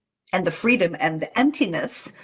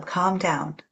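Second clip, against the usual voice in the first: soothing; 2 semitones lower, 4 dB quieter, much slower than usual. Shown as a demonstration. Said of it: "You can tell them".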